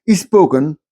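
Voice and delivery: "ispoken" said with a leading i before the s-p; Indian English spoken. Shown as a demonstration. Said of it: "spoken could be pronounced as ispoken".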